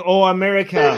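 a lightly voiced plea called out; retold call. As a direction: quote the rooftop plea without much force. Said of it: "a man on a rooftop shouting".

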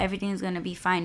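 quick, soft reassurance; retold easy confidence; calmly confident. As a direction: brush the worry aside quickly and quietly. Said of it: "he sounded like he was so confident".

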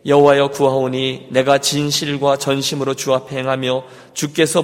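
level, measured recitation; scripture reading. Acted. Pastor leads congregation in reading Scripture, measured recitation. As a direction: read the verse out on an even, intoned pitch.

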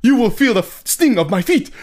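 hammed-up imitation of stereotyped Asian accent; mock stereotyped Asian child-character voice; stereotypical Asian accent.

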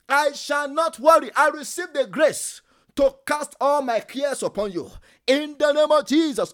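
a pastor leading a shouted prayer; fervent prayer. Acted. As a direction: call the room into prayer with force. Leads congregation in declaration prayer.

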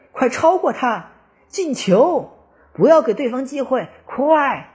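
high, loud urging shout; cheering shout. A narrator's reading. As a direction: yell them on from the stands. Fans cheering at football match.

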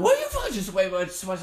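high laughing yell at the screen; excited yell. Real, not acted. Gamer yelling at friend while laughing, loud. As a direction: shout it out while cracking up.

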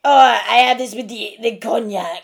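lightly put-on French accent; mock French accent. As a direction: imitate an over-the-top Frenchman's speech. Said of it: "but that's what he sounds like".

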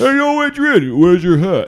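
hammed-up high, loud movie shout; Rocky. Quoting Rocky calling to Adrian, high loud mock shout. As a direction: call out high and loud, playing it for laughs.

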